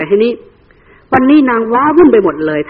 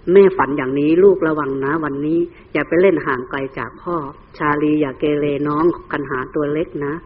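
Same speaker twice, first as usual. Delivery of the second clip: lightly voiced mother, a little lower and softer; worried mother; 3 semitones lower, 4 dB quieter than usual. Mother tells children her bad dream and warns them, softly worried. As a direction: caution the little ones gently.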